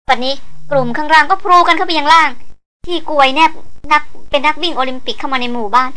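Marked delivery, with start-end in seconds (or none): none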